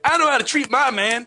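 high, sassy put-on Black woman voice; sassy line with a karate chop; African American accent. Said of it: "you can picture that".

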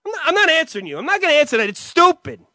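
loud, high refusal; acted angry refusal. Brother yells his refusal to answer. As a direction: snap back, refusing. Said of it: "End scene".

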